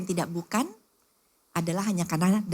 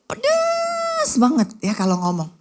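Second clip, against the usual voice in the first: sharp tongue; 12 semitones higher, 4 dB louder, slower than usual. Acted. Mimicking a sharp-tongued talker.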